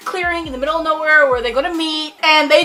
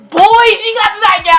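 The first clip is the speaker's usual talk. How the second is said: high, loud fangirl squeal; excited squeal; 8 semitones higher, 7 dB louder than usual. Retold or imitated. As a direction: squeal it like you just saw your ship happen. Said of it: "I was just like".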